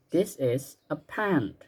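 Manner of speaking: slow and clear, word by word; slow model sentence. Shown as a demonstration. Teacher modeling a sentence for pupils to repeat, slow and clear. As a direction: spell it out slowly for the class to copy. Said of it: "Repeat after me sekarang ya".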